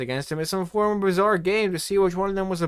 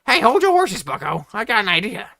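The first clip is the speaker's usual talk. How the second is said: calling out; 6 semitones higher, 7 dB louder than usual. A narrator's reading. Ryuke calling Pedro back.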